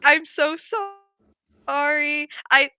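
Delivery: slow, drawn-out mock apology; a hammed-up, slow and sorrowful consoling friend. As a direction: stretch the sorry like a soap opera. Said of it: "and he's just like".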